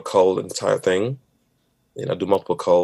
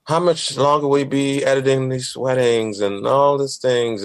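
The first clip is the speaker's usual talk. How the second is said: nagging wife; 4 semitones higher, slower than usual. Retold or imitated. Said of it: "you wanna hear the nagging wife voice?".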